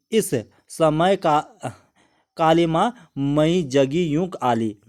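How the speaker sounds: slow, measured verse reading; poem recitation. Acted. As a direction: recite each line slowly, with weight. (धीमे, गंभीर कविता पाठ)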